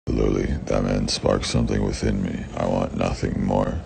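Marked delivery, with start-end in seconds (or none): none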